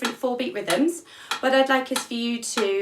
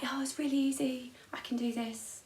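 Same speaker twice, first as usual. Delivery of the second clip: mock overconfident; 3 semitones higher, 10 dB quieter than usual. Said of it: "I'd be like".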